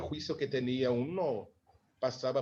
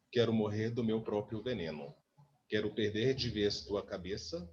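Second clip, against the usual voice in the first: poem reading. Acted. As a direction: read the verses like a poem. Reads song lyrics aloud.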